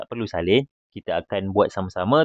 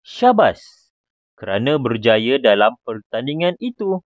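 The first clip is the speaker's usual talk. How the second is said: excited, happy; 2 semitones higher, 4 dB louder than usual. Shown as a demonstration. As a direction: cheer the winner proudly. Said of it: "intonasinya perlulah berbentuk teruja ataupun gembira".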